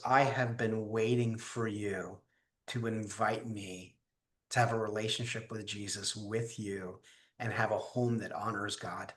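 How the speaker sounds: tender. Retold or imitated. Fiancee answering her repentant man, softly and tenderly. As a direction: say it gently and unhurriedly, as if quoting her.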